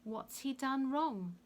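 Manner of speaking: feigned horror, high and drawn out; Pilate. A narrator's reading. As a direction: protest with pretended shock. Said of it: "pretending to be horrified".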